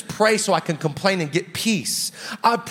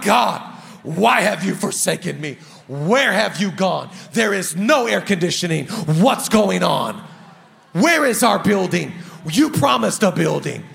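lower-pitched mock complaint to God; mock whining prayer; 3 semitones lower than usual. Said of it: "my prayer looks like whining".

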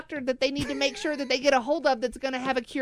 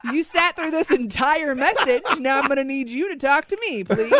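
louder, laughing parody of a cheery greeting; mock his sugary voicemail; mock syrupy voicemail; 5 dB louder than usual. Co-host mocks Luke's greeting, laughing cheesy voice. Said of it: "You just being like".

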